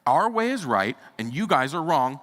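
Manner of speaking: hammed-up voice of a church that insists it is right; stubborn church folks. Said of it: "that we've said".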